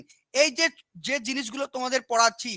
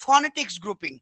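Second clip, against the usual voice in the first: ordinary talk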